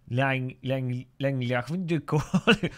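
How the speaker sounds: mock Dutch voice, halting start; amateur imitation of a Dutch speaker; Dutch accent. Shown as a demonstration. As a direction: have a stab at sounding Dutch. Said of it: "The Dutch would be like".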